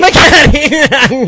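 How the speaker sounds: loud, high mock radio DJ cry; a hammy FM DJ yelling the place name; hammed-up DJ exclamation. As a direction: overdo it like a cheesy DJ. Mocking DJ's hammed mispronunciation.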